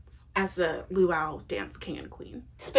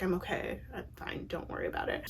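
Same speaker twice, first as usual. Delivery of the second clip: much softer, fading to a whisper; quietly insisting he's fine, almost voiceless; soft brush-off; 9 dB quieter, faster than usual. Retold or imitated. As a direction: murmur it away as if nothing's wrong. Brushing off condolences.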